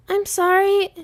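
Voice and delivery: put-on high, tearful child voice; a boy sobbing out sorry; sobbing apology. A narrator's reading. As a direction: son apologising to his father through mock sobs. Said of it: "he said between sobs".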